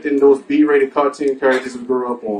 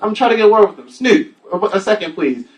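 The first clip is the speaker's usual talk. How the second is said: mock nervous TV reporter; field reporter; 4 semitones higher than usual. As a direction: sound caught off guard on live TV. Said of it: "he's like this".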